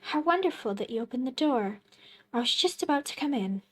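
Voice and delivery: bright, quick, eager stranger voice; a pushy visitor, quick and chipper; cheerful stranger. Acted. Visitor role in game.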